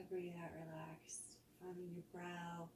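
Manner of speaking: soft guided body scan, exhales whispered; calm yoga teacher voice easing the class into rest; guided relaxation. Acted. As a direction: lead them gently through tensing and letting go.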